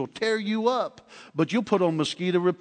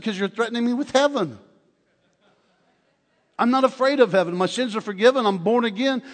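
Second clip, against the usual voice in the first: defiant joy; 5 semitones higher, 3 dB louder than usual. Retold or imitated. Defying the knife-wielding hitchhiker.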